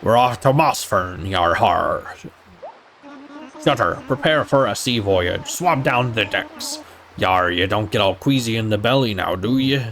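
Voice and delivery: hammy pirate taunting his passenger; pirate captain voice. Acted. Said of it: "he talks like a sailor and or pirate".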